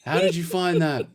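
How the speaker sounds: high-pitched incredulous outburst; mock astonishment. Retelling own reaction to a quick find, in mock astonishment.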